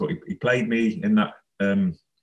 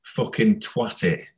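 slow, understated Scouse imitation; retold Scouse shout, kept at talking volume; lightly voiced Scouse accent, drawn out; Steve Redmond; slower than usual. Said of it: "Steve Redmond shouting his Scouse accent".

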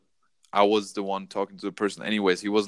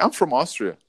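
stranger greeting voice; 4 semitones higher than usual. Retold or imitated. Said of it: "maybe that's not my voice".

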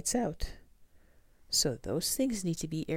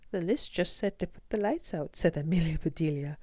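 earnest, higher and brighter; innocent maid voice; 4 semitones higher, 4 dB louder than usual. Acted. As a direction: play a naive eager maid. Amelia Bedelia's lines in the story.

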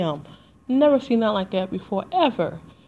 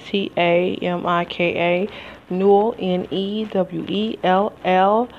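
spelling out slowly; slower than usual. Real, not acted. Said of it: "my first name's Tamika".

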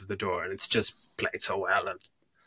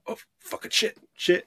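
high whispered frightened swearing; Ripley's scared curse; 11 semitones higher than usual. Retold or imitated. Ripley seeing the alien round the corner, high whispered panic. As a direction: whisper the panic as she spots it. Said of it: "She's just like".

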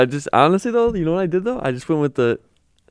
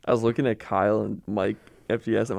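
normal talking voice

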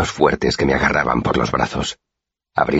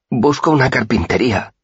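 dazed mumble; 10 semitones higher than usual. A narrator's reading. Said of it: "mascullé aturdido".

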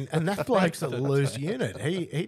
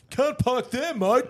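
high, loud bogan call; mock Aussie yell; 11 semitones higher, 7 dB louder, slower than usual. Driving past a wrecked car, high mocking yell. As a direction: yell it like a local larrikin. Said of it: "all I could think ... was".

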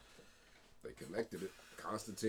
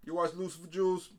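excited; 8 semitones higher, 5 dB louder than usual. Real, not acted. Excited teasing about the show.

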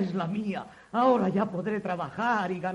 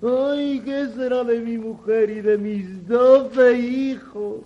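fake lamenting. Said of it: "con falsas demostraciones de desconsuelo".

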